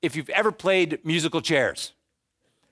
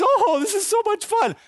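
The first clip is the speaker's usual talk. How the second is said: high, put-on sing-song delight; mock giddy, carefree fun; giddy partygoer; 4 dB louder than usual. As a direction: players circling the chairs, high giddy voice.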